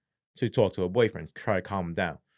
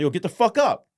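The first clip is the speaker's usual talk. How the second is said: retold angry order; 7 semitones higher, 4 dB louder than usual. Retold order while kicking him.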